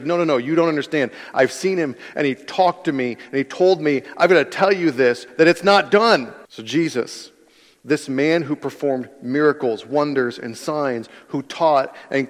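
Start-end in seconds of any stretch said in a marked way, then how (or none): 0.0-6.3 rushed, rising, growing louder; blurting out news, building up; excited Mary. Retold or imitated. Mary rushing to tell the disciples, excited. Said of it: "She's like".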